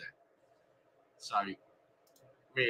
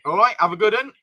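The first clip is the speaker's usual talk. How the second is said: posh telephone voice; 4 semitones higher, 5 dB louder than usual. Pretend. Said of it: "I shall use my posh voice".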